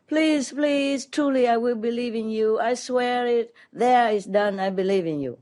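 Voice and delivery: hanging man begging for rescue, mildly desperate; desperate pleading. Retold or imitated. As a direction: plead with God, promise anything. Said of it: "so the man was desperate".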